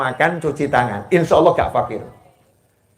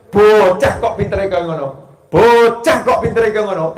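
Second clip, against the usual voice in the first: quoting grandmother; 4 semitones higher, 4 dB louder than usual. Retold or imitated. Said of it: "dulu Simbah bilangnya apa".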